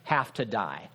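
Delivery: mock exasperated doubter; incredulous questioner. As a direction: play the baffled sceptic asking why. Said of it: "people who say".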